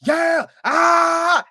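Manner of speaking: loud, high whoop of joy; high excited yeah yeah; excited cheering. Retold or imitated. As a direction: cheer like your team just scored. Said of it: "I'm like".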